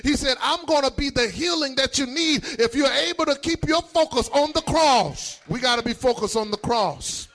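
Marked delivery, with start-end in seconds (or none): 0.0-5.0 urgent, rolling sermon cadence; fervent preaching. Real, not acted. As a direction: press on phrase after phrase, building fervour. Preacher builds in fervour.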